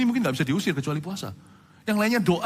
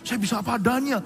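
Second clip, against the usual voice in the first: put-on higher, lightly gushing young fan; a hint of an eager fan; mock flatterer; 6 semitones higher than usual. Preacher imitating a young fan praising him.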